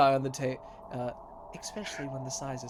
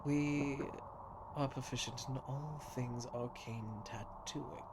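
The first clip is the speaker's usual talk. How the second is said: tattooist welcoming customer; 4 dB quieter than usual. Acted. GM voices tattooist Doc.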